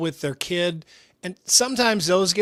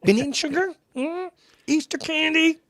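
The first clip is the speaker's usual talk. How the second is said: imitated dentist; 9 semitones higher than usual. Dentist quizzing a child about sweets, high mock-cutesy voice. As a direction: coo over a child's teeth, mockingly high. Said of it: "he would always be like".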